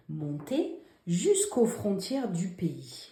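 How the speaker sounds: slow, even reading of the corrected sentence; teacher rereading slowly; slow dictation read. Shown as a demonstration. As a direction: read it slowly, word by word, for pupils to check. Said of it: "dans cette phrase".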